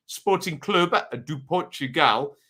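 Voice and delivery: club name in a put-on Portuguese accent. Commentator naming a loan player's parent club, light Portuguese accent. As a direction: give it a touch of Portuguese accent. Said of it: "I said that in that accent".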